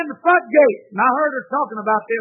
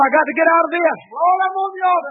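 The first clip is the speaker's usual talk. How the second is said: urgent cry; 4 semitones higher than usual. Retold or imitated. Retold struggle to get up praying.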